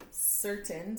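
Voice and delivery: "Certain" starting with an S sound; soft C. Shown as a demonstration. Teacher explaining the C rule, S sound opening "Certain". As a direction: say "Certain" carefully, its C as a clear S. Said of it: "so you hear the S".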